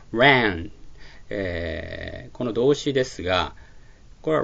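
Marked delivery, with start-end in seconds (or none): 0.1-0.7 Ranの母音をアとエの中間の音ではっきり発音; Ranをアとエの間の広い母音で強めに; ranの発音実演. Shown as a demonstration. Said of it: "このアーエーエヌのA、Aの音です". (Ranはアとエの中間の音で、はっきりと)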